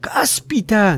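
breathless whisper of wonder; astonished boy whispering; whispered amazement. Acted. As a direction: gasp it in a hush. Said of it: "dijo Dick".

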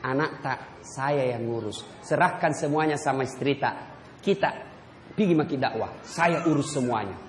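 gentle wife sending her husband off; tender wife. Retold or imitated. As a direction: soothe him as he leaves. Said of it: "Karena bilang apa".

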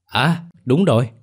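like an idea just struck him; exclaiming. Acted. Boy suddenly remembers, tells grandma excitedly. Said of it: "reo lên".

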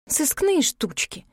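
slow, high-pitched scoff; snorting. A narrator's reading. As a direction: scoff at it, drawing the words out. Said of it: "фыркнула я". (пренебрежительно, фыркая)

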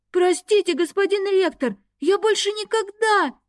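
high, panicked pleading; frantic wail. A narrator's reading. Caught student begging the dragon rector, high frantic wail. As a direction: beg in terror, voice shooting up. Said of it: "истошно завопил тот".

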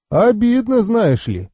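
mock-hurt, high start dropping away; wryly put-on hurt; wry chuckle in voice. A narrator's reading. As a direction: feign offence with light amusement. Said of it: "усмехнулся он".

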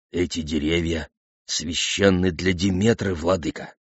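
low, soft, subdued voice; timid objection. A narrator's reading. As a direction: object humbly and quietly to your ruler. Foreman timidly objects to the king.

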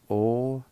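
letters O S T A spelled one by one. Shown as a demonstration. Teacher spelling O-S-T-A for the class. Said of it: "First part is pronounced like this".

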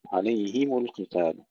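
عليهم القتال with a clear i on هـ and u on م; هـ with kasra, م with damma in عليهم; clear vowels. Shown as a demonstration. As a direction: recite "alayhimu" distinctly in عليهم القتال. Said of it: "نحقق كسر الهاء وضم الميم".

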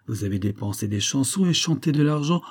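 words swapped by mistake; tongue-tied mix-up of "dépensé des chansons et chanté de l'argent"; slip of the tongue. Real, not acted. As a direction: misread line before correcting. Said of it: "Je vous demande pardon".

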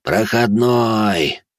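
slow hoarse wheeze; wheezing. Acted. Hungover Bazhenov wheezes back at the girl. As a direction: croak it out slowly. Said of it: "просипел Баженов".

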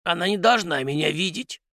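high-pitched, fussy house spirit; flustered muttering. A narrator's reading. House spirit hiding behind the armchair, flustered high muttering. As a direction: fret in a high little creature voice. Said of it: "суетливо пробормотал Космач".

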